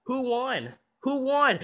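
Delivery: put-on insistent child chanting one question; same punchy, falling tune on each repeat; relentless nagging. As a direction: pester without letup.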